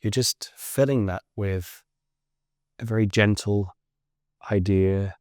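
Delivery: unhurried guiding voice with long pauses; guided relaxation. Acted. Teacher guiding listeners lying on the floor to let go, guided relaxation. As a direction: lead them gently through a body scan, leaving space between phrases. Leads a guided body scan.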